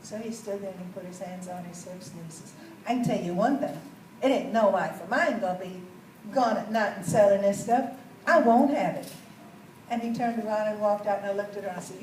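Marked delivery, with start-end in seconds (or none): 2.9-9.1 louder, firm voice of a bossy husband; stern husband. Retold or imitated. A controlling husband forbidding his wife's job, firm and loud. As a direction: lay down the law.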